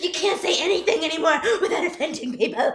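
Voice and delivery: mock whiny man. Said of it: "That's what he sounds like to me".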